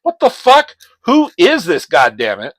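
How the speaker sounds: high, loud furious yell; Spider-Man yelling at the caller, high and loud. Retold or imitated. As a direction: shout it into the phone. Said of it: "And Spider-Man's like".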